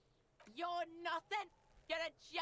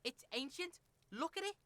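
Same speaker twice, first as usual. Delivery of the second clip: a lightly voiced rude street kid; brash kid Kuno; 3 dB louder than usual. Rude kid sneering at the detective, lightly voiced. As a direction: play the foul-mouthed kid, sneering.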